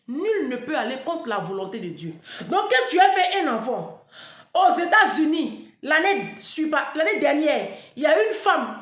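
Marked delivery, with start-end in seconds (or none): 2.4-8.8 high and loud, words drawn out slowly; heated storytelling. Real, not acted. Vlogger telling followers about an American tragedy, loud and high. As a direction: push the story out with big energy.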